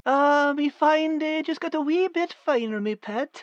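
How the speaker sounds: northern English dialect voice; a cheerful fox in a broad northern accent. Acted. Al the fox greets Liz, broad northern accent. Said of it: "Al character in dialect".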